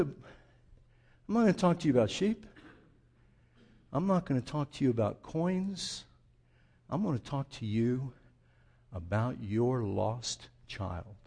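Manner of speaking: soft, slowing and dropping to near a murmur; Jesus quietly brings the crowd to the lost son; hushed. Acted. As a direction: draw them in quietly toward the lost son.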